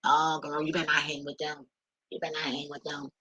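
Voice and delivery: mock confidential gossip; gossipy friend. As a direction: lightly play the friend warning you off. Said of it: "they also trying to tell you who to be around".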